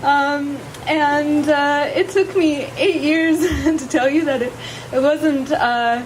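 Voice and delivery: nervous laughing vows; shy, giggling through her vows; saying wedding vows. Real, not acted. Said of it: "would you please share your vows".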